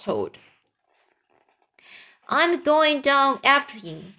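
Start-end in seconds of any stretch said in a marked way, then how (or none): 2.3-4.1 higher, mildly urgent cry. Acted. James setting off to rescue centipede, mild cry. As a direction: announce it with a light lift in pitch. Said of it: "cried James".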